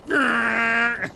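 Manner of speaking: high, strained "grrr"; straining growl of pulling something up; effortful growl. Acted. Game master acting a player hauling the anchor, strained growl. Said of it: "you're like".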